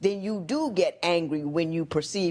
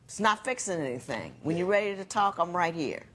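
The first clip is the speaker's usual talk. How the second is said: calm reply; 3 dB quieter than usual. Retold or imitated. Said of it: "I'll say something like".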